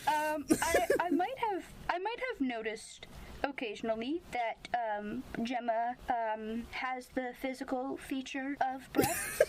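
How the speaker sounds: halting, um-filled pretend confession; mock awkward admission. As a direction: play the flustered, overly careful admirer. Plays flustered Fitz admitting it.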